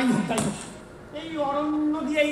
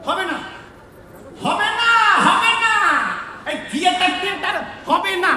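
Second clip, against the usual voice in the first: exasperated yell, half laughing; shouting; 4 semitones higher than usual. Acted. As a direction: yell in despair that the show is doomed. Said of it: "অত চেঁচাচ্ছ কেন?".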